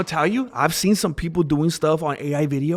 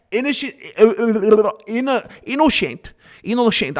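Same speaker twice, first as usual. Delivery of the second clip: innocent said the Spanish way, higher, as ee-no-shent; Spanish accent; 5 semitones higher than usual. Shown as a demonstration. Mocking the defendant's Spanish side, in a Spanish accent. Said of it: "I'm talking Spanish".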